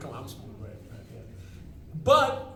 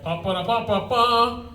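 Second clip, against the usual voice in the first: sung fanfare, then slow, louder proclamation; triumphant fanfare; 4 semitones higher, 8 dB louder, slower than usual. Retold or imitated. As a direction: announce it like a moon landing, drawn out. Triumphant fanfare entering store.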